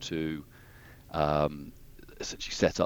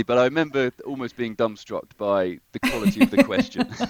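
higher, louder words through a laugh; laughing as he remembers; 7 semitones higher, 6 dB louder than usual. Real, not acted. Telling the interviewer he was dumbstruck by her question, laughing. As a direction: let the laugh carry the memory.

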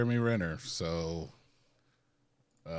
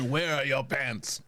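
police officer; 5 semitones higher, 3 dB louder, slower than usual. Pretend. Cop questioning drunk paradegoer.

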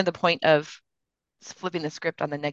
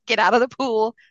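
silly sing-song voice; goofy playful self-talk; 4 semitones higher, 3 dB louder than usual. Shown as a demonstration. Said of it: "I will do it in a goofy way".

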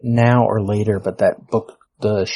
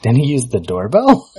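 imitated incredulous question, louder, rising; mock audience heckle; 4 semitones higher, 6 dB louder than usual. Imitating an audience member at the doorbell scene, mock incredulity. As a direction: play a puzzled heckler, voice climbing at the end. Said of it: "someone will be like".

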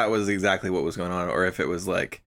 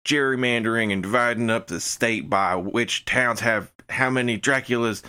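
mock-indignant stump speech; hammed-up aggrieved candidate; North Carolina senator. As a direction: rail like a folksy politician on the campaign trail. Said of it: "a senator from, like, North Carolina".

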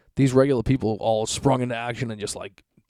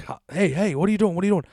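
high, loud scolding call; scolding the dog; 8 semitones higher, 3 dB louder, faster than usual. Retold or imitated. Owner scolding his dog as he catches her.

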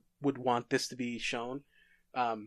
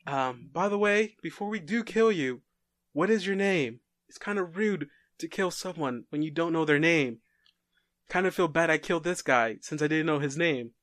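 lightly voiced killer, a little raised in pitch; polite killer; 3 semitones higher than usual. Masked killer asks his next victim's name, lightly acted politeness. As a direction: put a hint of mock courtesy on it.

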